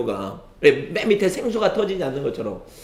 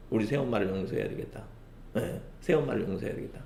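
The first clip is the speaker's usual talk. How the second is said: soft, low, acted inner decision; quiet resolve; 6 semitones lower, 13 dB quieter, faster than usual. Stepson deciding to forgive his stepmother, quiet resolve. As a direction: murmur it low, like a thought to yourself.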